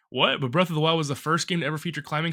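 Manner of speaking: mock sarcastic, fast; imitating a sarcastic friend.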